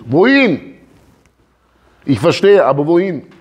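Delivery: puzzled pleading question; baffled question. Acted. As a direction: Moses asking God where they should go, puzzled. Moses voiced protesting.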